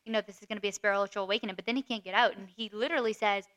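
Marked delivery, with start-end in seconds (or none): 0.1-1.6 changed tone. Retold or imitated. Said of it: "his tone changes".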